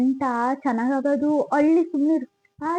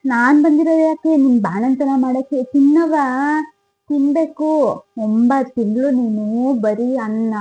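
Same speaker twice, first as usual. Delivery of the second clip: loud, bossy scolding; 6 dB louder than usual. Acted. Grandma scolds the new mother into eating, loud and bossy. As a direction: tell her off and order her to eat.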